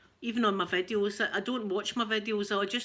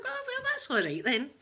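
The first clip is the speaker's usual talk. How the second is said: laughing retelling; 5 semitones higher than usual. Retold or imitated. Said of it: "I was like".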